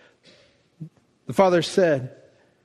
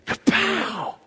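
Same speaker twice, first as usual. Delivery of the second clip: kapow; 10 semitones higher, 3 dB quieter than usual. Retold or imitated. Hug at the airport, imitated.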